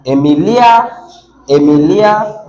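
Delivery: "Emilia" as e-mi-LIA, weight late in the word; late-stressed "Emilia", the last part held; stress demonstration. Shown as a demonstration. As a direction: lift and lengthen the end of "Emilia". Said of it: "now let's stress this one".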